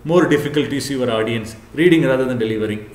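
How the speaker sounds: reading from slides. Shown as a demonstration. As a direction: read the bullet points straight off the slide. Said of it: "If you read like this".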